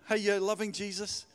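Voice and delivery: ordinary talk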